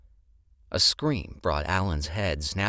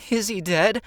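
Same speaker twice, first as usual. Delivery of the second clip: high, loud scared question; frightened; 8 dB louder than usual. Acted. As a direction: ask in a fearful voice. Frightened hostess asks.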